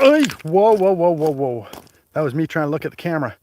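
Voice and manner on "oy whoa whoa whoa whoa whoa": startled exclamation. Real, not acted. Startled while handling the camera.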